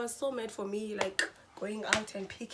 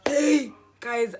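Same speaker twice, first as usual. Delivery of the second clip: laughing; 3 semitones higher, 12 dB louder than usual. Real, not acted. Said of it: "I was losing my mind".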